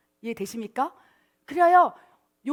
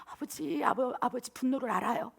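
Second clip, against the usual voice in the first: softly wheedling "Father"; aegyo coaxing; 3 dB quieter than usual. Acted. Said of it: "애교를 부리면서".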